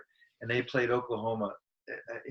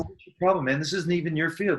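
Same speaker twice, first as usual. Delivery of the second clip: higher-pitched, mildly heated challenge; a touch of indignation, pitched up; retold confrontation; 5 semitones higher than usual. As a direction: imitate squaring up to a heckler.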